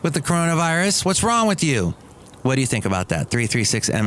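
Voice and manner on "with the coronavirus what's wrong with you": mock coworker scolding. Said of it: "she goes".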